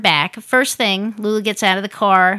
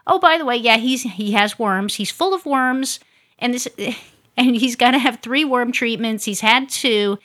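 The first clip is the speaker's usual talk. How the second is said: casual mock of the lady dropping bad news; mock rescue lady; 3 semitones higher than usual. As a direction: chirp it out like it's nothing. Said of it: "and then".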